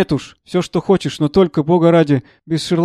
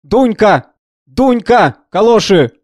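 mock yell, pitched higher and louder; imitating a shout; 5 semitones higher, 5 dB louder, much slower than usual. Professor imitating his servant yelling for galoshes, a mock rough shout. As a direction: bark the servant's name across the hall, higher and louder. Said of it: "стоит мой Сергей посередине передней и кричит".

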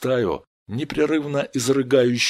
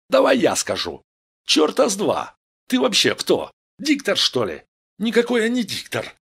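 squabbling insults; 6 semitones higher than usual. Acted. Gang members argue over who speaks, squabbling rudely. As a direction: trade rude jibes in raised pitch. Толпа грубо переругивается.

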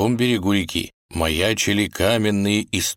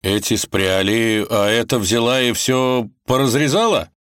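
indignant; 4 semitones higher, 4 dB louder than usual. Acted. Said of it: "возмутился он".

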